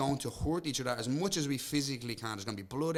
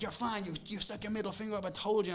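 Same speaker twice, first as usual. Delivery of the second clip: raised, mock-officious promoter voice; 8 semitones higher than usual. Fighter mimicking the promoter who fined him. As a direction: do the pompous promoter handing down a fine.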